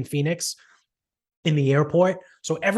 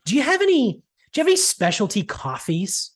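pitched-up imitation of a clueless customer; whiny high customer question; mock customer voice; 8 semitones higher than usual.

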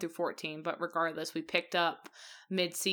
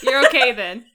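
loud, raised-pitch call back; calling across house; 5 semitones higher, 13 dB louder than usual. Retold or imitated. Husband checking on his laughing wife from afar, loud call. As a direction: holler the reassurance to another room. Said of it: "He would call from across the house".

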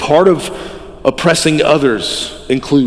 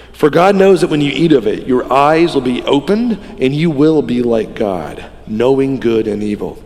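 slow hypnotic serpent hiss. Retold or imitated. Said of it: "my voice is gonna crack".

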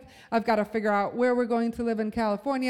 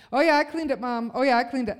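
a hint of a breezy kid reassuring Mom; casual little-boy fib, lightly imitated; lightly voiced young son. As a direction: lightly mimic a child brushing off a parent's question. Five-year-old son's breezy assurance, voiced.

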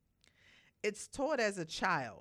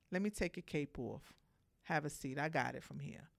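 tender; 3 semitones lower, 5 dB quieter than usual. Retold or imitated. Man soothing woman, cape off.

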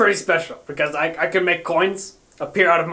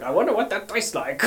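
soft, lightly Italian-sounding lilt; a touch of mock Italian, quietly; slight Italian accent; 7 dB quieter than usual. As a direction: slip briefly into a hint of Italian. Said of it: "Was that kind of like Italian?".

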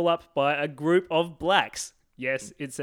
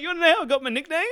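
higher, playful mock brag; mock boastful Wiedemann; 12 semitones higher, 5 dB louder, much faster than usual. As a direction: tease it like a proud nickname story. Acting Wiedemann, laughing.

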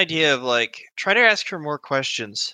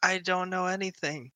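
frightened denial; 5 semitones higher, 8 dB quieter than usual. Acted. NPC denies again.

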